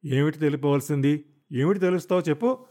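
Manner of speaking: shout, pitch climbing; husband loses patience and shouts at his wife. Acted. Sharp, rising shout. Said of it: "అరిచాడు".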